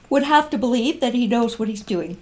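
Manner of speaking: words stretched by a yawn. Real, not acted. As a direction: talk through a yawn. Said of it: "a little yawn just snuck".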